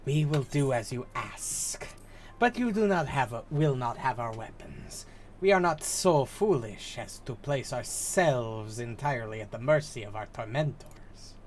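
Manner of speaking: put-on measured, formal Ananta character accent. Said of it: "I do the accent for the Ananta".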